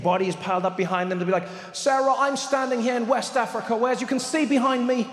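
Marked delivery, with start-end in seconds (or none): 1.7-5.1 lightly raised, measured British news report; solemn on-the-spot report; British reporter. Retold or imitated. Reporter talking to Sarah in the studio, lightly posh news voice. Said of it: "someone random on Sky or BBC".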